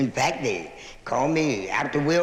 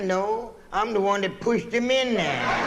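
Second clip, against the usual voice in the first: tossed off with a laugh; punchline laughing; 5 semitones higher than usual. Acted. Landlord admitting the push to the man, laughing. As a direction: deliver the reveal, laughing.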